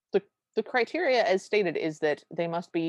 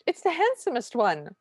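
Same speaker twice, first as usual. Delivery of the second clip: raised pitch, mock-excited squeal of admiration; gushing stepsister; 4 semitones higher than usual. Stepsister pointing out the handsome one, mock-gushing. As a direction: gush like a starstruck stepsister, hammed up.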